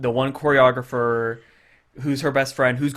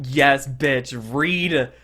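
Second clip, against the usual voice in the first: sassy cheer; much slower than usual. Retold or imitated. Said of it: "my inner gay man is, you know, going like".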